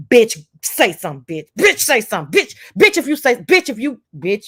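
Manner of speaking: jumpy, pitch-swinging retold heckling; goading demands. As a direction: pester someone insistently, imitating a rowdy panel. Acting out panel goading someone.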